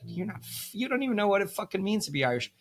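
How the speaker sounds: high, fast, scornful put-down; mock Irish retort. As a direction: sneer it back quickly. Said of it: "You'd be like".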